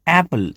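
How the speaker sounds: એપલ with a short open a. Shown as a demonstration. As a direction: say એપલ with a brief first vowel. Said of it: "એનો અવાજ ટૂંકો આવશે".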